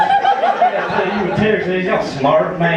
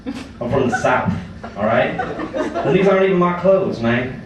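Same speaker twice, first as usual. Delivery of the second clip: put-on Rusty, cocky Southern good old boy. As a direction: play a rowdy Southern comic working the crowd. Plays Rusty the Southern comic.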